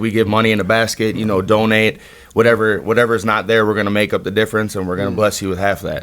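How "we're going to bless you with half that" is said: ordinary talk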